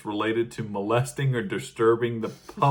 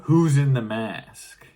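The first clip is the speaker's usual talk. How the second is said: slow, louder mock yell; retold shout; 2 semitones higher, 6 dB louder, slower than usual. Attacked man challenges two masked people, in a retold shout. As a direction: call it out drawn-out, half shouting. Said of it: "shouting at them".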